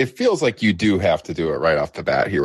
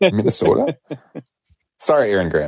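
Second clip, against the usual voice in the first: mock Minnesota accent; faster than usual. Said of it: "a little Minnesota accent".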